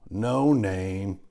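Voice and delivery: booming hearty pig voice; a bluff, jolly uncle booming out; big hearty voice. A narrator's reading. Pig greets the spider in a big hearty voice. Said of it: "he said in a big, hearty voice".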